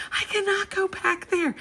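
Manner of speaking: very high, squeaked-out imitation; laugh-crying. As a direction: imitate squeezing words through helpless laughter. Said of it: "laugh crying".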